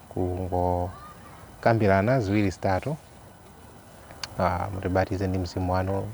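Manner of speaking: subdued, understated praying voice; prayer. Real, not acted. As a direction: pray quietly and evenly on behalf of the listeners. Leads a short prayer.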